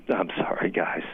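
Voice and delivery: choked-up apology, voice giving out; tearing up. Real, not acted. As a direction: trail into a whisper, holding back real tears. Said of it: "I'm tearing up".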